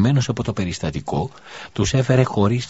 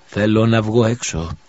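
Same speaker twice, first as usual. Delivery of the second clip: put-on slow, frail sick child; weak voice; 3 semitones higher, 4 dB louder, slower than usual. Sick boy asks his mother to go outside, weakly. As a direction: drag the words out like a feverish boy. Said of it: "είπε με αδύναμη φωνή".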